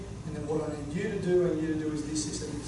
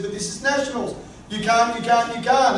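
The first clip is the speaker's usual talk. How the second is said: doubting inner voice; 5 semitones higher, 6 dB louder than usual. Retold or imitated. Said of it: "the little voice says".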